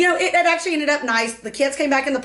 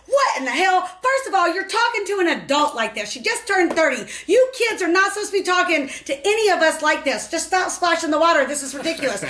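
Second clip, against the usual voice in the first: higher, indignant telling-off; mock scolding; 5 semitones higher than usual. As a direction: scold the brats like an outraged adult. Scolding kids at pool.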